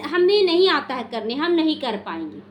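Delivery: mock stubborn no, flatly refusing; blunt refusal. Disciple refusing an assigned task outright, mildly imitated blunt refusal. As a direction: act out a disciple who won't even try. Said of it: "ऐसे नहीं बोलना है".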